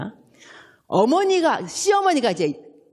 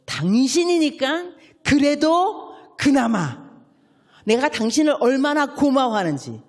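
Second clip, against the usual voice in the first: tender husband; 3 dB louder than usual. Shown as a demonstration. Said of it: "이렇게 말씀하셔야 돼요".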